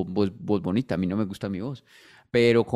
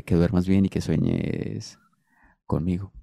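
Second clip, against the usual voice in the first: low, drawn-out good-night line; slow it down and pause before the last word; sexy voice message; 4 semitones lower, slower than usual. Shown as a demonstration. Man finishing his seductive good-night message, low and slow. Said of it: "deje usted un mensaje de voz sexy".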